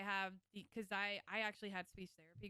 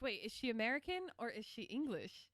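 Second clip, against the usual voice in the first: retold puzzlement, higher and louder at the end; baffled reaction; 4 semitones higher, 4 dB louder than usual. Recalling first hearing streamer's mixed accent, baffled. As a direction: act out your confusion, building to an outburst. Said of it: "I was like".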